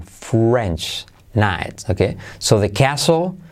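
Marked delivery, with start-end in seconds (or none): 0.0-1.0 "French" with a rounded, u-coloured R; "French" said like "fwrench". Shown as a demonstration. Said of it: "la R como trae consigo una U".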